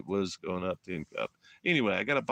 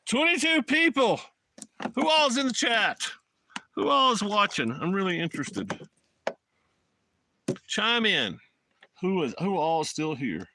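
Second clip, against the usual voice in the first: excited call-out; 9 semitones higher, 5 dB louder than usual. Real, not acted. Calling out to live chat.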